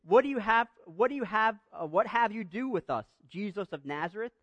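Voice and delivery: mildly dramatised demon confronting Jesus; lightly acted demon. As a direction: read it as a demon crying out, not fully in character. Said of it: "the demon says".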